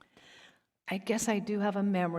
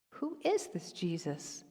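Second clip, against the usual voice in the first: a string of mildly indignant questions; mother-in-law's worried interrogation; fretting mother-in-law. Acted. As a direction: question the son-in-law's choices like a protective mother. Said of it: "Do I sound like a mother-in-law?".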